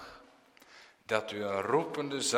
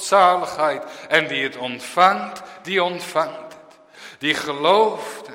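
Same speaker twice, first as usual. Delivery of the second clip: fervent preaching; 3 semitones higher, 4 dB louder than usual. Acted. Preacher proclaiming Christ's call, fervent and raised. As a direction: preach it out to the whole church.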